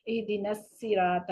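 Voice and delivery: الصراط with ص read as a plain س; wrong tajweed. Shown as a demonstration. Teacher demonstrating a common recitation mistake, slow. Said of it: "السین پڑھ دیا سواد کو".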